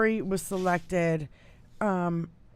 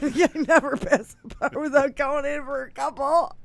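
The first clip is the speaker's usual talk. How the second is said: louder, laughing through the words; 6 semitones higher, 10 dB louder than usual. Real, not acted. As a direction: cackle it out.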